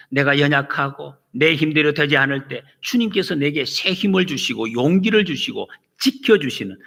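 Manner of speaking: ordinary talk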